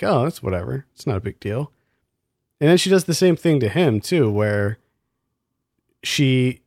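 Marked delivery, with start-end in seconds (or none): 0.0-1.7 dismissive. Retold or imitated. Co-host mimics the character shrugging off a stalker, dismissive. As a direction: toss it off quietly, mock unconcern. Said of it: "she just dismisses it like".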